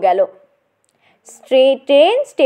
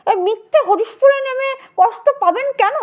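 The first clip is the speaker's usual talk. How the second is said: put-on old gentleman; 5 semitones higher than usual. Old gentleman explains the route.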